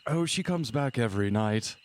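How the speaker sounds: put-on hearty old-fashioned gentleman, lilting; genteel husband character. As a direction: congratulate them like a gracious host after a hunt.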